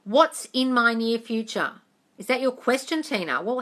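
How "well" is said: ordinary delivery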